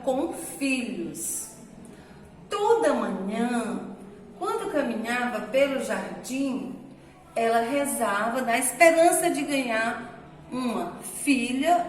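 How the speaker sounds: slow, storytelling voice for the class; story reading. Shown as a demonstration. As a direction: read the tale aloud slowly to the children. Teacher reads the story aloud.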